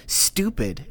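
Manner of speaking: put-on high little-kid voice; little daughter's voice. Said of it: "she'll be like".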